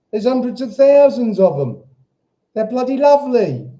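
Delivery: high, loud, gushing praise; excited enthusing. Real, not acted. Telling viewers about London's Jews, high loud gushing. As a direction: burst out fondly about them.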